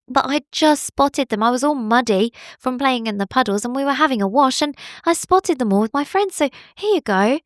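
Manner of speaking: a hint of a chatty little bunny; Billy bunny voice. Bunny explaining to the bowerbird, lightly voiced.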